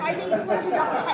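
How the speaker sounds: hushed library voice; library whisper. Real, not acted. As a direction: speak softly in a quiet room. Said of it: "I gotta use my library voice".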